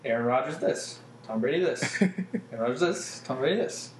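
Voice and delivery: mock public-radio reader, slightly hushed; understated, soft-spoken radio parody; soft NPR monotone. Shown as a demonstration. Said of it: "like, a really soft monotone voice".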